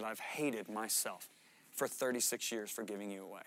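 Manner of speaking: a hint of a weeping mother; mother's tearful confession. Mother crying on the phone.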